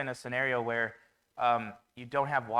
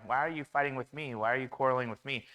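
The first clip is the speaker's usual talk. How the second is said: mild mock anger; 5 dB louder than usual. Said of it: "And Moses gets mad at them".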